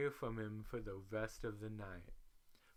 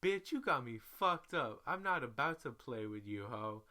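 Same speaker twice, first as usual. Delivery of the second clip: cussing out her travel buddy; going off; 5 dB louder than usual. Retold or imitated. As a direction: tell her off loud and fed up. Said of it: "I start going off".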